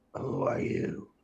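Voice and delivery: weird, strange, deep creature voice. Voicing Felix, a water creature snarling at a player: weird deep creature voice. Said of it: "it sounds really weird".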